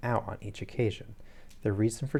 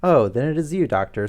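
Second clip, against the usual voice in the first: relieved; 6 semitones higher, 10 dB louder than usual. A narrator's reading. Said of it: "with a great heave of relief".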